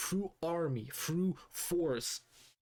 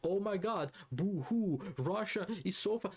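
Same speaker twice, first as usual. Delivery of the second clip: mocking crybaby; 4 semitones higher than usual. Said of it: "cry like a bunch of little fucking babies".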